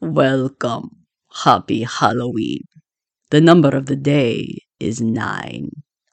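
put-on pitch dropped low into vampire accent. A show host greets Type 9 listeners on the Halloween edition, doing a Count impersonation. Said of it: "that was my Count impersonation".

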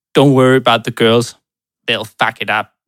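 heavy, thick Australian accent, rattled off fast. Imitating professional sailors talking about women, in a thick Australian accent. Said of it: "forestiller det med sådan en tyk australsk accent".

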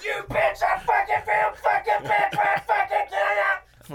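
very high-pitched small-creature voice. Retelling what the doll says in the movie: Chucky voice. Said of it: "that's him the whole time".

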